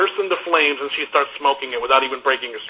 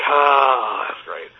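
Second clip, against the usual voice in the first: contented sigh; much slower than usual. Retold or imitated. Basking in heater warmth.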